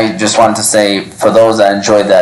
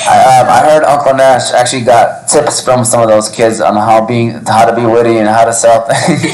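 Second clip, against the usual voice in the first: laughing while telling; 3 semitones higher than usual. Real, not acted. Teasing story about Uncle Nash.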